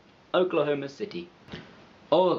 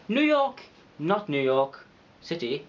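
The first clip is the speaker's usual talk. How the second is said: put-on punchy, higher New York accent; 3 semitones higher than usual.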